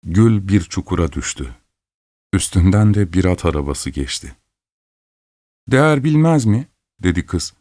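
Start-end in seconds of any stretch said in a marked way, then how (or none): 5.7-6.7 high, offended echo of the insult; indignant retort. Acted. Girl offended by the student, indignant and high. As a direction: throw his words back at him.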